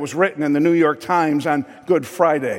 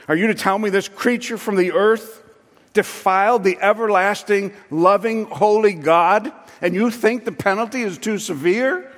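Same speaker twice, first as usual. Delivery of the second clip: retold rising indignation, higher and higher; 6 semitones higher, 4 dB louder than usual. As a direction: pitch climbing higher and higher, indignant. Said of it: "His voice was raising higher and higher".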